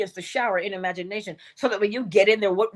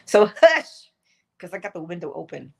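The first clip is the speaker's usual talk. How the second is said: laughing hush; 2 semitones lower, 5 dB louder than usual. Real, not acted. Shushing laughing pet.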